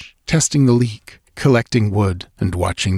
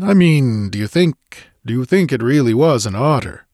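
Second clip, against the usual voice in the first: tense, pressing, rising pitch; urgent question; 4 semitones higher than usual. Acted. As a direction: push the question anxiously. Companion anxiously presses the question.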